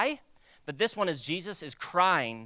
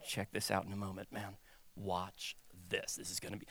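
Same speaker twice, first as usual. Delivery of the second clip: very soft, secretive whisper; 10 semitones lower, 15 dB quieter than usual. Acted. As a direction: whisper it like an insider tip. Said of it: "Whisper to somebody like".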